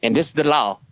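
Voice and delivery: mock catchphrase in a put-on voice; imitating big-jawed leader. Buddy mocking the big-jawed leader, put-on catchphrase voice. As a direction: mimic the man with the big jaw. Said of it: "he talked like that".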